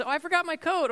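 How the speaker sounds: put-on a kid lamely confessing a forgotten coat; whiny kid. Kids forgetting things before trip.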